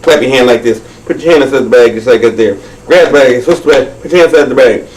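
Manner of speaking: fast, animated trick instructions; quick-fire stage patter; rapid magician's patter. Pretend. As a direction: rattle off the moves like a showman.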